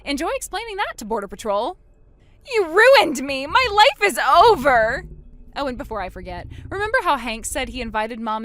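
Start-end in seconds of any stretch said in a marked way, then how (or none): 2.5-5.1 loud, high, desperate cry; furious, breaking yell; anguished shout. Acted. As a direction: scream it at the one who ruined you. Sister learns she is ruined.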